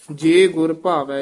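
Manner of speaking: phrase falls to rest on ਭਾਵੈ; full rest after ਭਾਵੈ. Shown as a demonstration. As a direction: close the phrase on ਭਾਵੈ and stop. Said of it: "ਇੱਥੇ ਵਿਸਰਾਮ". (ਭਾਵੈ ਤੇ ਵਿਸਰਾਮ)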